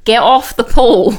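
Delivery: loud fatherly shout. Retold or imitated. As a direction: bark it at the kids. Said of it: "shouting at them".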